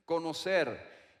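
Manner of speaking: conocer said slowly, drawn out and alone; stress on conocer. Shown as a demonstration. Preacher echoing the pastor's key word, slow emphasis. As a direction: linger on conocer. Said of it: "enfatizó la palabra conocer".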